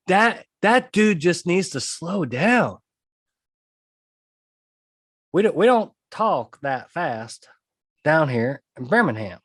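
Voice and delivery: slow it right down, Birmingham style; unhurried drawl of a Southern lawyer. Retold or imitated. Attorneys mocking a fast talker, in a slow drawl. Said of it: "the number one thing they said".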